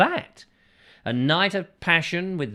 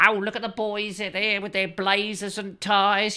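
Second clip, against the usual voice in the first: swooning schoolgirl; 7 semitones higher than usual. Pretend. Voicing the swooning schoolgirl again.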